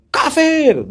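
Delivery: loud, high accusing cry of kafir; mocking loud accusation; harsh shout. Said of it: "Nggak boleh katanya".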